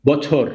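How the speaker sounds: "বছর" read as ব plus ছর; syllable-by-syllable reading. Shown as a demonstration. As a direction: model "বছর" for learners, ব then joined ছর. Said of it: "নিয়ে উচ্চারণ করব".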